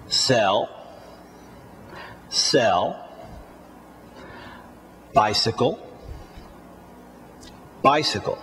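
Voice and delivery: each word alone, "Sell" and "gone" low with a small rise; repeat-after-me drill. Shown as a demonstration. Teacher has learners repeat "Sell, bicycle, gone, France", each word isolated. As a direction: model "bicycle", "gone", "France" singly, long pauses for repeating. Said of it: "please repeat these words after me".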